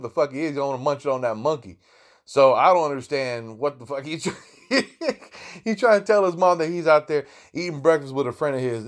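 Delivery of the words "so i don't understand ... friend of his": laughing. Real, not acted. Laughs while telling.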